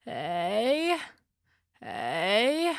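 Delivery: hey rising out of vocal fry; creaky vocal fry warmup. Shown as a demonstration. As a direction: start in a creak, slide up. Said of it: "Here's what this will sound like".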